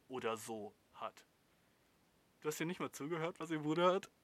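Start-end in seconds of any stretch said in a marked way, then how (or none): 2.4-4.1 louder, higher, rising in disbelief; can't believe what he's reading; a host challenging the viewer, louder and higher in disbelief. Real, not acted. Scolding viewer on a podcast.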